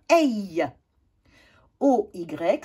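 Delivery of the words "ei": EI said as è gliding into y; AY sound. Shown as a demonstration. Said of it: "ça va faire".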